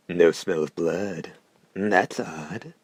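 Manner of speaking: slow, hoarse murmur. Acted. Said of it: "the hunter's left hand murmured".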